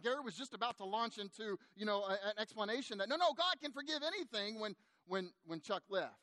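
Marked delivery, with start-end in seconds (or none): 3.1-4.6 eager reassurance. Retold or imitated. Pastor eager to correct him.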